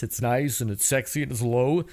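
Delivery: low, sexy morning voice. Shown as a demonstration. Podcaster imitating the voice after waking, low and sexy. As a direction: drop it down into a mock sexy low. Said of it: "you get that morning voice".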